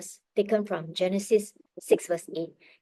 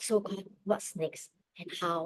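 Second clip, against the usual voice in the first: prayerful asking; 2 semitones lower, 9 dB quieter than usual. Retold or imitated. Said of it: "I was praying and asking God".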